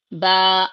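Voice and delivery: با held for two counts; با with a short hold. Shown as a demonstration. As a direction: stretch با a little, two beats. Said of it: "با کو ٹو counts کے برابر کھینچنا ہے".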